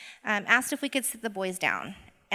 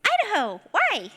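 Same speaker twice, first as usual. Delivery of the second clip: high, loud retold yell; imitated child's yell; 11 semitones higher, 6 dB louder than usual. Kindergartner answering teacher about mom's origins, yelling. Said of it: "he yells".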